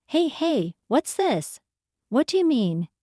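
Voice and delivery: a touch of a husband snapping in anger; angry husband. Acted. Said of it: "my husband's angry voice rang out".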